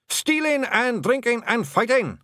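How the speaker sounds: high, hearty clan yell; cheerful shout. Acted. The blue men cheerfully shouting their creed. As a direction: roar it out gleefully. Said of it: "shouted the blue men cheerfully".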